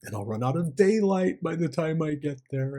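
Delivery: mildly fretful inner monologue; stressed thoughts. Retold or imitated. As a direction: imitate your own worrying, lifting gently toward the end. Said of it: "I started feeling a bit stressed".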